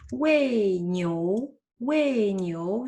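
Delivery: wei said in falling fourth tone; Chinese word demo. Shown as a demonstration. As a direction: wei with a sharp falling tone, niu after it. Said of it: "je vous ai montré, premier exemple".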